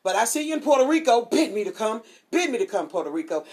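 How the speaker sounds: loud, fast, lifted greeting to Puerto Rico; excited shout-out. Real, not acted. Host greeting listeners in Puerto Rico, excited and loud. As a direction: call out to the island with joy.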